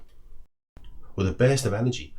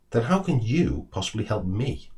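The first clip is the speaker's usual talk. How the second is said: frustrated squirrel; 3 semitones higher than usual. Acted. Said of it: "frustration seeping into its voice".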